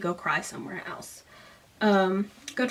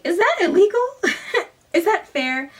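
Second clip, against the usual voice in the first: high, giggly mock voice for a boy asking; hammed-up high voice with a laugh in the middle; mock Dempsey voice; 10 semitones higher, 5 dB louder than usual. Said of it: "Dempsey and is like".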